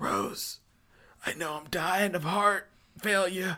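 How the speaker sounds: put-on very high, dying deathbed old-man voice. Imagining Grandpa on his deathbed speaking to Rose: imitating dying Grandpa. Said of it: "and he's like".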